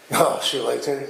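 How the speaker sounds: shrugging it off, flat and casual; offhand dismissive. Retold or imitated. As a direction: toss it away like it means nothing. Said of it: "He didn't say that like".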